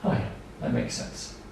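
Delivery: soft whispered mock parent, calmed down; a parent whispering that it all makes sense now. To the staff, the calmed parent whispers low. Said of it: "the parent can calm down and go".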